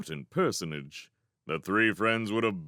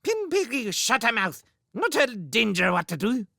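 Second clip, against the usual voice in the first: put-on bratty squeaky child; 12 semitones higher, 4 dB louder than usual. Bratty shrew baby shouts.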